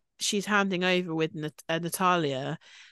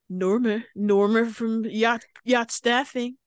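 playful drawn-out name; 3 semitones higher, 4 dB louder, slower than usual. Real, not acted. Playfully drawing out Norma's name.

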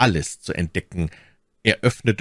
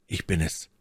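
softer, disguised man's voice; 6 dB quieter than usual. Acted. D'Artagnan poses as the count in the dark, disguised voice. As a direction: hide your own voice, quietly. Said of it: "mit verstellter Stimme".

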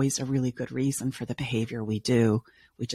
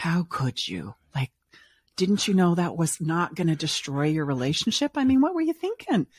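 mock scolding; 3 semitones higher than usual. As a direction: play the scolding therapist they dread, rising to disbelief. Imagined scolding therapist voice.

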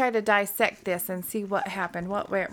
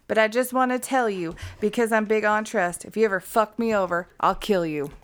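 put-on menacing Aaron quote in a Florida accent. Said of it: "In my Florida accent".

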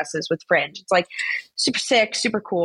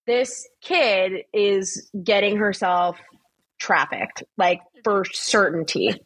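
alarmed mom; slower than usual. Retold or imitated. Mom panics about daughter's trip.

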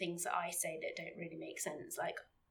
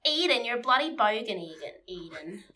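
put-on Australian accent; 4 dB louder than usual. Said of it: "I can only say".

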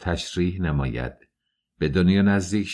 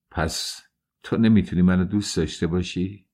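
despairing repeat. Acted. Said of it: "با لحنی مایوس تکرار کرد".

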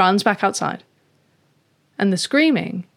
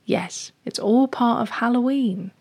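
lightly voiced lady cat, pitched up; knowing neighbour cat; 4 semitones higher than usual. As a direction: explain patiently in a higher cat voice. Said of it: "And Fluffkins goes".

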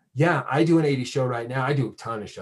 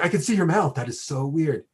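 higher-pitched imagined amazement; mock astonishment; 4 semitones higher than usual. Friend imagining life after masks, mock astonished. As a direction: act out being weirded out by a bare face.

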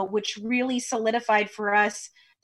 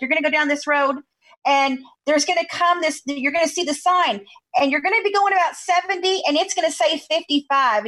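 higher-pitched, lightly imitated Louisiana accent; 5 semitones higher than usual. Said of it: "he's talking in his Louisiana accent".

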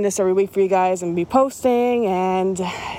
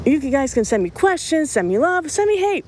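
excited defiance; 5 semitones higher than usual. Real, not acted. Host defiantly dares the haters.

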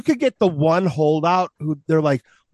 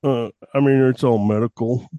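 lightly voiced creepy doctor; 4 semitones lower than usual. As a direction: keep a touch of the odd doctor character. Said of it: "Are you gonna talk like that".

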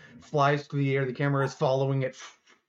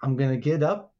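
lightly voiced scheming alligator; a hint of a tough-talking gator striking a deal; alligator wheeler-dealer. Alligator lays out his side of the plan, lightly voiced scheming.

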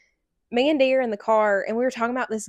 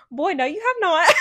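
sassy disbelief; 8 semitones higher, 5 dB louder than usual. Retold or imitated. Sassy disbelief at son's claim.

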